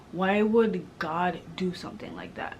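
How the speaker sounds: hushed, breathless whisper of grief; barely voiced, asking why; whispered question. Real, not acted. Speaking of her little brother's death, a pained whisper.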